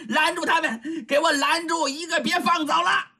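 high, furious command to his servants; shouted order. Acted. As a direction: order the thugs to block them, furious. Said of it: "他这么一下达命令".

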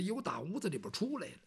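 a quick hushed aside. Shown as a demonstration. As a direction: rush it out under the breath. Same line said twice.

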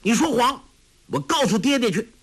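put-on high, indignant child's cry; mildly angry high outburst. A narrator's reading. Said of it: "怒道".

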